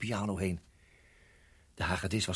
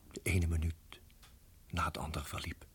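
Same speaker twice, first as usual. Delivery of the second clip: tense hush; 6 semitones lower, 6 dB quieter than usual. Acted. Spanning, slangen voor de ogen.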